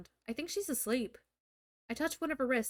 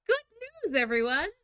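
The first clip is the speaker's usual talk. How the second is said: announcer impression; 6 semitones higher, 5 dB louder than usual. Futurama professor quote.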